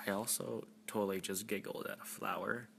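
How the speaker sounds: drowsy, drugged slur; sedated and woozy; groggy from anesthesia. Real, not acted. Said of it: "I think I'm drunk".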